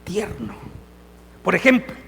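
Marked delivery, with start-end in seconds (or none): 0.0-0.5 tender. Shown as a demonstration. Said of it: "pero también es perfectamente".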